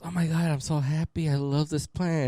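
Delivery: mock excited son. Son showing dad his plant, mock gushing. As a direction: play the son thrilled with his gift. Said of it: "He goes".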